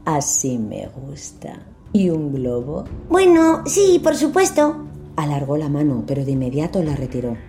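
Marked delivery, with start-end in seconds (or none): 0.1-2.8 slow, coaxing creepy clown; giggly sinister sing-song. Acted. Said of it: "Soy Pennywise, el payaso". 3.1-4.9 put-on high, eager little boy; child voice. George answers the clown.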